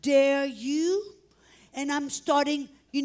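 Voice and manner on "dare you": slow, drawn-out indignant challenge; a touch of slow righteous anger. Retold or imitated. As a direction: stretch each word in mild retold outrage. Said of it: "that righteous anger".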